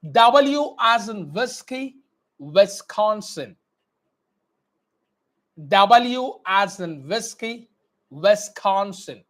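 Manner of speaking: slow, clearly mouthed letter drill; teacher drilling phonetic alphabet; slow dictation. Shown as a demonstration. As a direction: model every sound slowly. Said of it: "Always focus on my lip movement".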